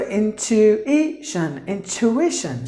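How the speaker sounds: teacher marking the stress in intuition. Shown as a demonstration. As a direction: lift the TU in intuition. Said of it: "you have to give the stress here".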